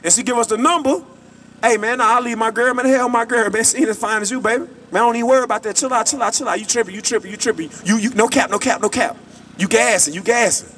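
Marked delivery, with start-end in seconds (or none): 1.6-10.7 smooth-talking man. Retold or imitated. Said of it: "That's how we talk".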